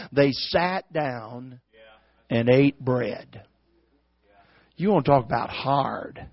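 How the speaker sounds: low, very slow, soft; hushed dramatic drop. Real, not acted. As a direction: let each word land quietly and heavily. Hushed punchline after preaching climax.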